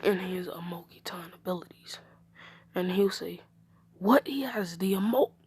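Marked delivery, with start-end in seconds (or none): 4.0-5.3 astonished question, cut off mid-word; surprised outburst. Acted. Learning of the child's ability, surprised outburst. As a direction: blurt it at talking volume, then break off. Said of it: "he would quiet down".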